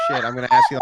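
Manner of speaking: high laughing shout. Real, not acted. Teasing guest, laughing.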